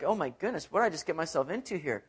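a hint of nervous dread; worried mutter. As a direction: mutter it in growing worry. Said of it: "kind of freaking out".

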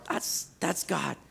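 soft, very slow hushed realization; quiet recognition. Pretend. Believer recognizing God's still small voice, soft slow awed. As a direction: breathe it out in awe. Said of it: "you begin to recognize".

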